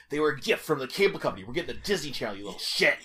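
mock sarcastic menace, lightly hammed up; barely restrained aggression. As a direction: imitate a dad itching to hit the kid. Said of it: "If we were inside, I'd fucking hit you voice".

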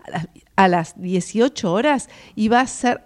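choking mid-sentence; words catching in a choked throat. Real, not acted. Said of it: "ay, me ahogué".

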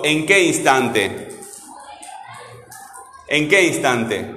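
slow, deliberate question stressing qué; slow repeated question; slow teacher question. Shown as a demonstration. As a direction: ask slowly so the class hears the question. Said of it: "Y pregunto".

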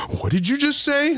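high, slow shocked question; imitating stunned guard. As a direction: stretch it out in mock disbelief. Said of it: "that security guy's face was just like, it just dropped".

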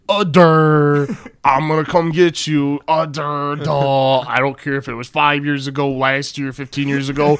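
lightly put-on dopey voice; mock impersonation. Comedian asking the crowd to guess who, mock impersonation. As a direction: retell a comic's crude impersonation. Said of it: "I'm gonna do impersonation".

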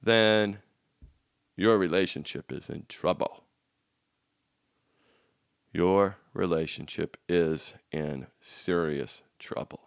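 a coach warning husbands, low and quiet; grave warning. Real, not acted. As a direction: drop the voice to make it sink in.

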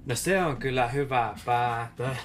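a hint of a guard character; reply as the captor, lightly voiced; guard's voice. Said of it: "niin on silleen". (kevyesti näytelty vartija)

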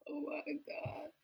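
breathy stunned whisper. Real, not acted. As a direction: gasp it out under your breath.

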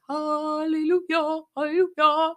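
joyful hallelujah. Pretend. Mock celebration after finishing work.

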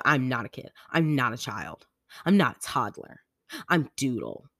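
emphatic, separated mock protests; imitating mad kid. Daughter insisting on her nickname, mildly mock-mad. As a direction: list each denial firmly, then declare the name. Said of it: "she will get so mad".

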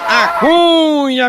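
stretched-out high call of "A Cunha"; catchphrase shout. Acted. Comedian opening a joke with a long drawn call. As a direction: belt out "Cunha" slow and high.

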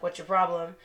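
soft, even, unbothered question; calm quiet question. Retold or imitated. To the driver, calmly asking what her problem is. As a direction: ask it coolly, no edge. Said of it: "very calmly like".

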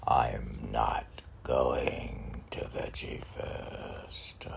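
slow, breathy whispered joke; slow whisper, an aside just for us. Acted. Whispering a joke to the host about skipping Veggie Fest.

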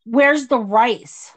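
slow, drawn-out mock demand; retold demand. Partner complaining about rice on the plate, mock demanding. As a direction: imitate a complaint, stretching the words.

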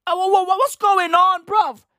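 high-pitched, sputtering mock bewilderment; stammering disbelief. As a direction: stutter into an incredulous question. Acted disbelief at family's attacks.

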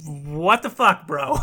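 slow, drawn-out incredulous reaction; acted disbelief. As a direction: stretch it out, dumbfounded. Acted disbelief at twenty minutes.

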